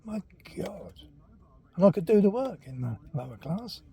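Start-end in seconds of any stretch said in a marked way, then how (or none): 0.0-0.9 whispered aside. Real, not acted. Aside about being moved down.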